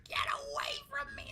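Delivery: high-pitched mock-terrified shriek; hammed-up scream of alarm; panicked yell. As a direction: yell it high, as if fending off a shark. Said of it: "I might yell".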